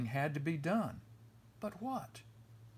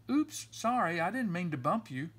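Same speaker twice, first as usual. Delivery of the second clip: higher and louder, a sudden oops; surprised apology; 4 semitones higher, 3 dB louder than usual. Acted. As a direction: blurt the sorry as if just caught bumping. Cub bumps sibling in yard.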